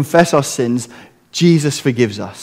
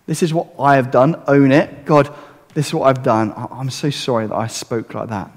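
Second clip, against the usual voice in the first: sincere specific confession; 3 semitones lower, 4 dB quieter than usual. Shown as a demonstration. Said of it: "Forget the we's".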